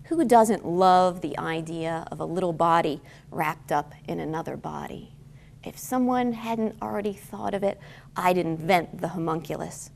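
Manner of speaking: measured poem reading with deliberate pauses; poetry reading. Acted. Poet reads star poem to lunchtime audience, measured poetry reading. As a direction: read it line by line, lingering on key words.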